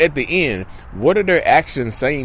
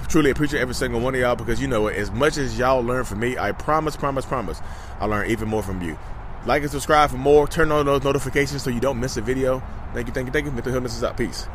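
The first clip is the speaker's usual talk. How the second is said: soft outro voice; 6 dB quieter than usual. Real, not acted.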